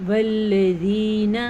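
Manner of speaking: والذین ending on a short nun; don't stretch the nun. Shown as a demonstration. Teacher showing a short nun in والذین. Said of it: "نون کو لمبا نہیں کرنا".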